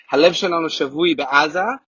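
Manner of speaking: reads the Hebrew phrase in Hebrew sounds; Hebrew reading. Shown as a demonstration. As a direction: say it as Hebrew, not English. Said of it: "in Hebrew it says".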